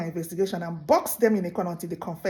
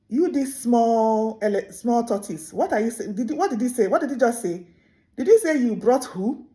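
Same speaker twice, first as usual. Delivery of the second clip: high, disbelieving questions; incredulous elephant; 4 semitones higher, 5 dB louder than usual. Acted. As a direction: demand in disbelief what was said.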